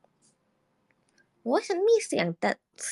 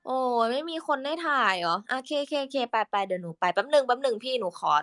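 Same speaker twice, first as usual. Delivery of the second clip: voice for Ju; 5 semitones higher, slower than usual. Shown as a demonstration. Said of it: "คุยกับพี่จูก็".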